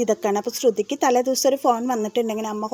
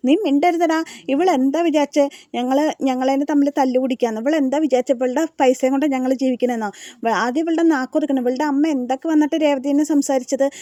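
higher, louder angry shouting; a retold fight, raised and loud throughout; 3 semitones higher, 4 dB louder than usual. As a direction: shout the brother down. ഗംഭീര വഴക്കാണ് കേൾക്കണത്.

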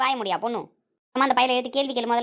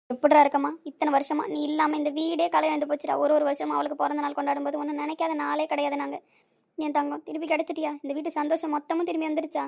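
emotional, on the verge of crying; tearful; 3 semitones higher than usual. Acted. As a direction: tearfully welcome back a lost granddaughter. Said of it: "அழுவாதீங்க".

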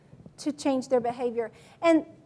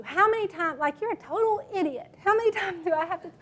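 exasperated nagging; 3 semitones higher, 4 dB quieter than usual. Shown as a demonstration. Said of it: "That is what we're saying to them".

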